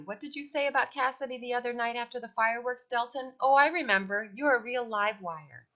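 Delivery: high, cheery doting mother; cheery mom voice. A narrator's reading. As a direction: chirp it like a proud mom. Mother character voice.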